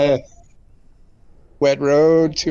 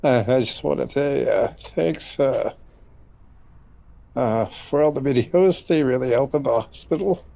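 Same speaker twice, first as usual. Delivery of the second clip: short of breath. Real, not acted. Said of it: "Sorry, I'm a little short of breath".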